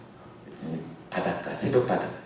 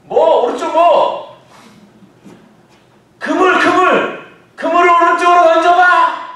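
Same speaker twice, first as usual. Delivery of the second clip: shouting back and forth; 12 dB louder than usual. Acted. Jesus and disciples shouting across the lake about the net. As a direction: yell the directions over the water.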